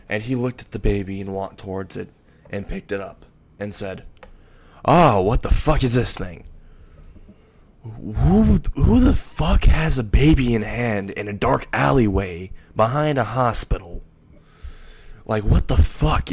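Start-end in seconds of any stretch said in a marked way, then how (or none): 4.9-16.3 loud, swearing outburst of disbelief; a startled gunman shouting at what he found; shocked cursing yell. Acted. Man in a dark alley yelling in shock at a baby.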